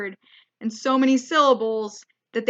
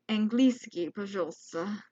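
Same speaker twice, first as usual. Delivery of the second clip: mock-defeated, trailing off much softer; retold sad plea; 3 semitones lower, 7 dB quieter than usual. Traveller admitting defeat to border officer, sadly and softly. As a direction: say it small and sheepish, sinking away. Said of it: "so I just very sadly said".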